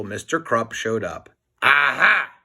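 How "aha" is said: shouting. Acted. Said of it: "he shouted".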